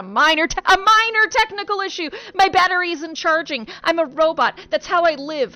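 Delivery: high, loud chirpy robot. Acted. Robot insisting to Jeremy it's fine, high and loud. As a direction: brush it off brightly as a robot. Robot downplaying its dying battery.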